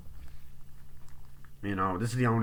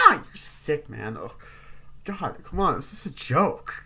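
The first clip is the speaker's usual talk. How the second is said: acted exasperation; 4 semitones higher, slower than usual. Acting characters arguing over the joke.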